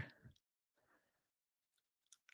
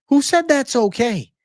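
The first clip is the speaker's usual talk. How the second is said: the repeat flies up high and loud; outraged shout; 12 semitones higher, 5 dB louder than usual. Pretend. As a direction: yell it this time, fully outraged. Repeated louder and much higher.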